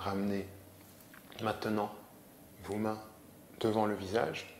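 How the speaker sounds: calm yoga nidra instruction; measured relaxation voice with long pauses; guided meditation. Acted. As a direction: guide them gently into rest, pausing often.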